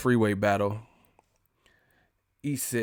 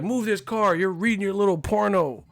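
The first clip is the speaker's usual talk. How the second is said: nagging drivers; 8 semitones higher than usual. Retold or imitated. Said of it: "They're like".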